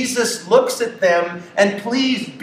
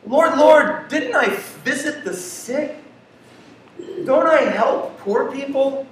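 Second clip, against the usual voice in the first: eager plea; 5 semitones higher than usual. Retold or imitated. Believer listing good deeds.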